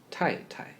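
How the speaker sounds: tai tai said near a whisper, second tai light; neutral tone. Shown as a demonstration. Teacher modelling the polite word for wife. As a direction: breathe tai tai softly, second syllable reduced. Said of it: "the second should be reduced".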